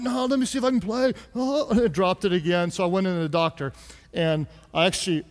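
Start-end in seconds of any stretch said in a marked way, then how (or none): 0.0-1.1 hurried. Retold or imitated.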